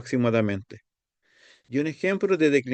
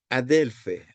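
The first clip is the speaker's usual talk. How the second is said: adelfe with the stress pulled back from the end; retracted accent. Shown as a demonstration. Teacher showing a Greek vocative, adelfe with retracted accent. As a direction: pull the accent of adelfe back off the final syllable. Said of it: "acento retrotraído".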